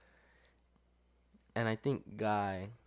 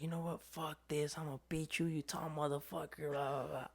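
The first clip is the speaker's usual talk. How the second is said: softer, higher mock drunk buddy voice; 5 semitones higher, 8 dB quieter than usual. Drunk friend losing at beer pong, mock slurred grumbling. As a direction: lightly ham up a sore-loser drunk friend.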